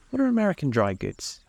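"are" punched high and long; stress on the verb. A narrator's reading. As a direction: lean hard on "are" in puzzlement. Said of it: "accentuating the verb".

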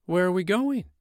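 put-on high curious boy; a child, excited; little boy voice.

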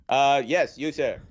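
put-on Boston-accented politician fielding press questions. Players' association director addressing reporters, Boston accent. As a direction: do a speechifying official with a Boston accent. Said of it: "you have the best Boston accent".

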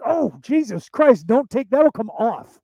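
slow, high, loud mock pleading; pained alarm. Man begging a partner to stop using teeth, mock pained alarm. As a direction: act out a wincing protest, drawn out. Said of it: "you touch that with your teeth. I'm like".

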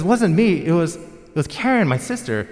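high, loud, panicked denial; child's shout. Retold or imitated. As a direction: yell it like a kid caught red-handed. Kids blaming each other, retold.

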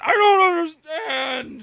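high, loud, slow, hammed-up wail; silly clown. Parodying movie line.

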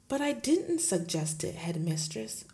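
lightly voiced gentle teacher; a hint of the meek young teacher; Miss Honey pleading. Teacher protesting to her headmistress, lightly voiced.

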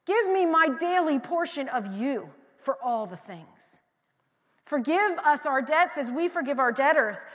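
slow, emphatic plea to God; drawn-out preacher's petition; crying out. Acted. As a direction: cry out in measured, fervent prayer. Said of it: "And so you cry out".

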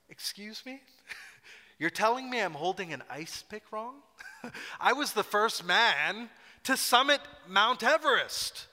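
the offended famous climber snapping back at tourists; indignant outburst. Pretend. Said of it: "if I'm Sir Edmund Hillary, I'm like".

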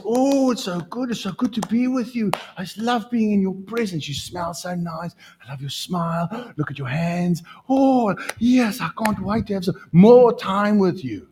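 high, swooning lovestruck gush; gushing young lover. Retold or imitated. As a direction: coo like a smitten young couple.

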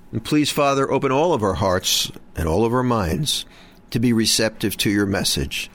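reverent, measured prayer voice. Acted. Opening prayer of the show.

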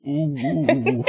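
half-laughing mumbled oohs; mumbled moaning. Acted. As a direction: moan wordlessly, as if half out cold. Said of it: "You hear mumbling".

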